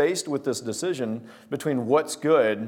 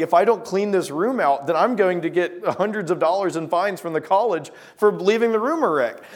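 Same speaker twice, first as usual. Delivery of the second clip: higher, worried run-on complaint; imitated panicking; 4 semitones higher than usual. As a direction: mimic a friend fretting in mild panic. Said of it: "like, panicking".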